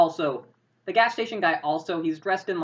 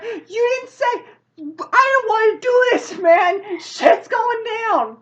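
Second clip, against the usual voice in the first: high, drawn-out hysterical shouting; acted panicked protest; 9 dB louder, slower than usual. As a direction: wail the protest loudly, pitched right up. Attendant panics after the shooting.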